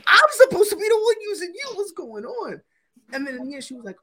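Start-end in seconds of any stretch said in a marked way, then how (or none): 0.1-2.6 high, hammed-up whiny crying; mock sobbing. Tells fiancee he feels used, hammed-up high crying. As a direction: wail it like a wounded lover, louder. Hammed hurt lover quote.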